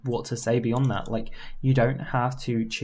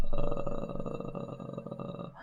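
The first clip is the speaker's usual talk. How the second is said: vocal fry; 8 dB quieter than usual. Shown as a demonstration. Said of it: "vocal fry as well".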